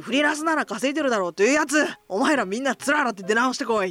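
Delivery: rough, fast scolding rant; mock rant. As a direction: snap at them in fast mock anger.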